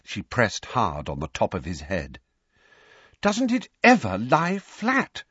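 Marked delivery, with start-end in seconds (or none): 3.2-5.2 high, drawn-out despairing wail; desperate. A narrator's reading. Mrs Weasley fussing over Harry's hair, desperate. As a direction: plead in a much higher voice, slowly. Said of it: "she said desperately".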